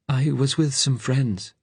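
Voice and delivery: put-on high, slow, anxious young-sounding voice; high-pitched fugitive voice; pitched high and drawn out; Frank. A narrator's reading. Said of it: "Frank said".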